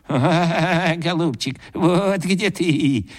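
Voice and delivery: slow bleating ram's head voice; ram's head in the tree mocking him, slow bleat. A narrator's reading. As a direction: bleat it out, drawn out like a ram. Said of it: "заблеяла баранья голова".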